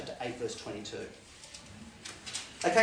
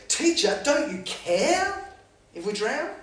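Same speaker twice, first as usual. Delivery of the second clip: panicked plea; 8 semitones higher, 4 dB louder, slower than usual. Acted. Disciples wake Jesus in storm.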